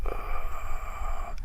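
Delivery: soft breathy "ugh"; cringing groan. Acted. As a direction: let out a quiet cringe of a groan. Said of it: "I, I cringe".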